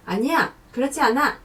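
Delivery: the contrary inner voice digging in; defiant protest. Acted. Rebellious inner voice refusing to agree, mock-defiant. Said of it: "삐딱선을 타는 애가 있어요".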